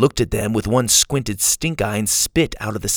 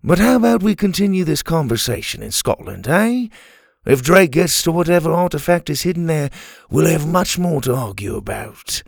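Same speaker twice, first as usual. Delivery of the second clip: higher-pitched swordsman character voice; adventurer, politely urging; 6 semitones higher than usual. Acted. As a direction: steer the group firmly onward. Dante urging them on.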